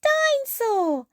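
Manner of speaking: put-on high toddler roar, loud growl; shouted dinosaur growl. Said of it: "shouted George".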